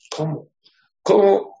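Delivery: high, loud disbelief; astonished question. Retold or imitated. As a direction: react in shock. (asombro, agudo y fuerte)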